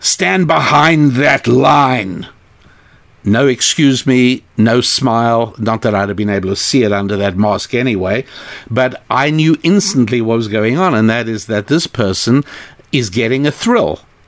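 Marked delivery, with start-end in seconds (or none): 0.0-2.3 slow, acted snarl, words drawn out. Retelling the person at the counter ordering them back in line, retelling a snarl. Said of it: "and snarled".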